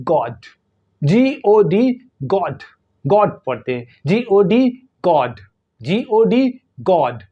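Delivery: गॉड with a short, clear rounded British O. Shown as a demonstration. Teacher demonstrating British गॉड to students, British short O. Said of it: "short ओ होता है".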